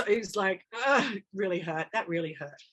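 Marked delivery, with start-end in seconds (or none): 0.9-1.2 pained groan. Retold or imitated. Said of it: "I can feel myself going".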